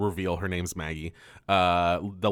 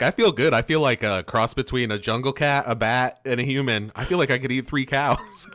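mock gleeful Derek; 4 semitones higher, 4 dB louder than usual. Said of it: "Derek is like".

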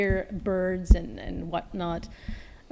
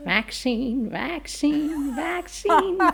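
each repeat pitched higher; rising sing-song; 7 semitones higher, slower than usual. Acted. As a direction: climb higher on every vaccine. Word repeated rising playfully.

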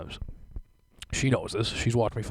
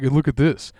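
mock excited; 3 semitones higher, 8 dB louder than usual. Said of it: "and she's like".

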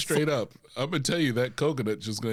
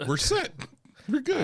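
excited; 13 semitones higher than usual. Pretend. Acted excited reassurance.

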